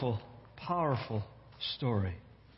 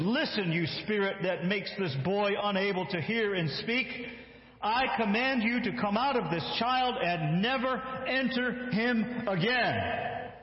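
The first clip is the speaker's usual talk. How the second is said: commanding rebuke; 6 semitones higher than usual. Acted. Jesus rebuking the evil spirit, forceful command. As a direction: order the spirit out. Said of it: "rebuked it".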